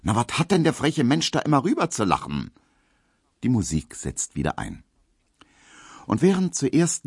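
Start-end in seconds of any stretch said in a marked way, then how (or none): 0.0-2.5 put-on a brash young maid waving it off; Emma's voice. Emma voiced.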